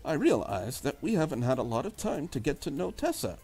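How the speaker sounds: put-on soft, quiet, prim young Englishwoman; preppy English girl. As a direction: read her as a proper English girl, softly. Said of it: "a preppy English type of a girl".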